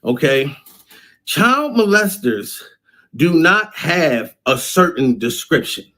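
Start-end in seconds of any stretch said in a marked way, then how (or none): 1.2-5.9 each word laid out slowly and deliberately; slow down and drive it home to the mothers; slow emphatic warning. Shown as a demonstration. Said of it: "I need y'all to be aware of this".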